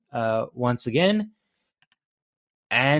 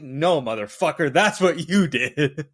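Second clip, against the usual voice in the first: laughing retort; 5 semitones higher than usual. Retold or imitated. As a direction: laugh through the comeback at the screen. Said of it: "I was like".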